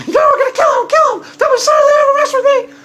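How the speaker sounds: high, loud, squeaky mock-girl voice; Stephanie imitation. Host imitates Stephanie vowing to destroy opponent, high squeaky glee. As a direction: chirp the threats like a gleeful little killer. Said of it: "my Stephanie imitation".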